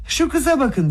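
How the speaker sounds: tiz perdeden haykır; yüksek, keskin bir ünlem; haykırış. A narrator's reading. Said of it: "diye haykırdı". (tiz sesle haykırarak)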